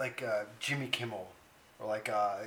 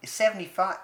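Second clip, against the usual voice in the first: louder, higher stab at Canadian accent; attempted Canadian accent; 5 semitones higher, 5 dB louder than usual. Shown as a demonstration. Co-host failing at his Canadian accent, loud and high. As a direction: force out a badly faked Canadian accent. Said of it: "I can't do it".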